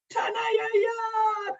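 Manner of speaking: over-the-top mock of a botched greeting; mocking Doug Ford. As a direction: yell it like a politician butchering a language. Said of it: "Speaking of Jamaican accents".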